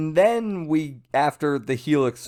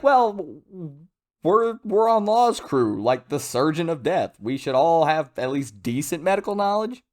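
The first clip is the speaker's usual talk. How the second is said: higher-pitched, hesitant voicing of a crewmate; put-on higher voice, tentatively reasoning; mock crew member; 5 semitones higher than usual. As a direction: lightly act out an unsure crew member. Acts out crew's imagined self-assessment.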